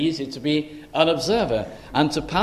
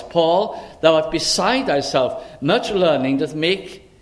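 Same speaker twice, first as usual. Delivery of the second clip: raised-voice declamation, pitched up at the ends; mildly raised voice, accusing Paul of madness; loud voice; 3 semitones higher, slower than usual. Acted. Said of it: "said with a loud voice".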